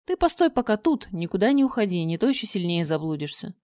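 a sly monster giving orders. Acted. Чудовище говорит с царевной. (хитрое чудовище велит ждать)

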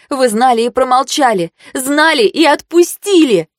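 betrayed student yelling at her mentor; furious accusation. Acted. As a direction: throw the blame in his face.

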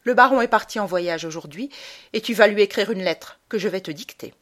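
a hint of a cold, scolding mother; stern mother. Mother punishing her son, cold and stern. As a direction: scold the boy firmly.

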